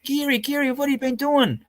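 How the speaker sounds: put-on a man marvelling at an old rival's size; imitating Sowens. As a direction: put on his surprised drawl. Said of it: "and he goes".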